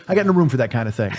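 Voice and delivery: a laughing, half-shouted impression of the friend; mock gruff friend. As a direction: toss it off like a dismissive buddy, laughing. Friend's reply mimicked laughing.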